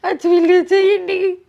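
tearful blessing, voice breaking into sobs; crying while she blesses him. Real, not acted. Mother blesses the visitor through tears, crying. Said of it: "તમે રોવ માં".

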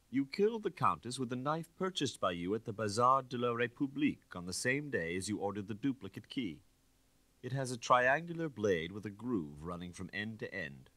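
a hint of a cold detective pressing his case; stern inspector accusing. Inspector voiced in reading.

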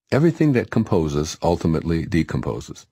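"Everything" with its last syllable, thing, brought out; stress on THING. Real, not acted. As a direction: lean on "thing" inside "Everything". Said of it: "I put the emphasis on the word thing".

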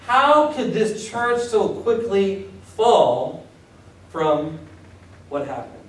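slow, fading lament; mild voiced dismay; dismayed Paul. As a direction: wonder aloud how it fell. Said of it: "So he's saying".

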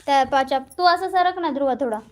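mother snapping at son; scolding. Real, not acted. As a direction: make him shift over now.

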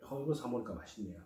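speaking through a big bite; chewing with cheeks stuffed; mouth full while biting. Real, not acted. Seen 0: Both hands hold wrap at mouth biting, then chews with full cheeks.

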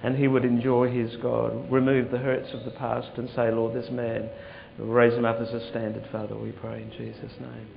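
earnest spoken prayer, rising and falling. Acted. Pastor praying over a man, earnest prayer voice. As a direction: lay hands and pray over him.

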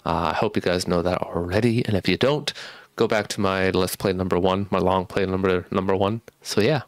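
speech blurred by a retainer; talking with retainers in; wearing a retainer. Real, not acted. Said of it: "I do have my retainers in".

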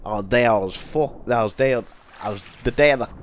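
stumbling through a fake Australian accent; faltering attempt at Australian vowels. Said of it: "I can't do an Australian accent".

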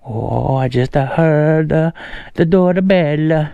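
halting mock Italian accent. Prankster fumbling the lock in riding gloves, mock Italian accent. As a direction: put extra vowels on words, Italian style. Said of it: "uh, an Italian accent".

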